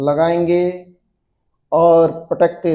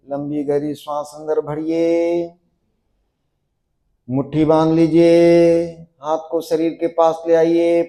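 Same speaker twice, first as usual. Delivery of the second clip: steady, sustained instructor's count-through voice; yoga drill cueing. Acted. Yoga teacher guiding a class into a stiff pose, steady drill cueing. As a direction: keep the class holding the pose with insistent, even commands.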